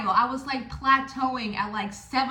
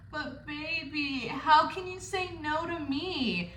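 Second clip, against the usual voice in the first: seductive pleading; 3 semitones higher, 5 dB quieter, slower than usual. Retold or imitated. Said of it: "And I was like".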